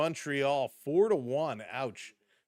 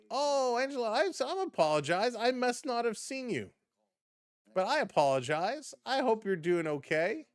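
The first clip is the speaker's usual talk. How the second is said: high-pitched, earnest apology; effusive apology; 9 semitones higher than usual. Real, not acted. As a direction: apologize sweetly, voice lifted well up. Apologizing to a viewer she missed.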